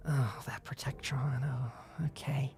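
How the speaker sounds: breathy whisper, muttered to herself; whispered aside. Acted. Hell's Bells glances over her shoulder, whispering an aside. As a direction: whisper it under your breath, unimpressed.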